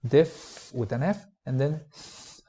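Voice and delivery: Diph as in F, and then th, slow and careful; diphthong with an F sound. Shown as a demonstration. Teacher showing how diphthong is said, carefully. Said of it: "Notice how we pronounce diphthong".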